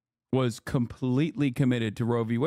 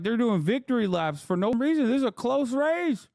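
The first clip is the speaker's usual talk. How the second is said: retold exasperation; 8 semitones higher than usual. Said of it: "I was like".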